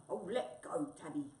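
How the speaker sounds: a touch of impatience; cross wombat. Acted. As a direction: snap a little, then drop back. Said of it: "said Wombat crossly".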